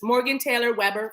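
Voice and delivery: measured mock-proper name recital; imitated way of talking. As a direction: lightly mimic a proper-talking woman. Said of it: "do you talk like this?".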